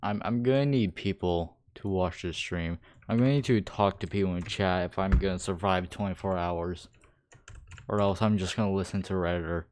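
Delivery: muffled through a rubber mask; talking behind a mask; inside a rubber mask. Real, not acted. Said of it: "Should I take this mask off?".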